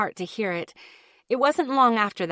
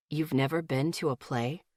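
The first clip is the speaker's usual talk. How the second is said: asked slowly; 6 semitones lower, 5 dB quieter than usual. Acted. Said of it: "he asked slowly".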